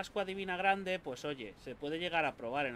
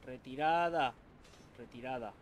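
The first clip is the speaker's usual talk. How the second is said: shouting orders over battle; 6 dB louder than usual. Real, not acted. Fleeing enemies in game.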